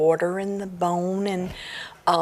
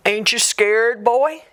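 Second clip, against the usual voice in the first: louder, rising ghostly taunt; 3 semitones higher, 4 dB louder than usual. Acted. Ghost taunts Jack by the fire, loud and rising. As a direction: taunt the boy from the dark. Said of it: "the voice said".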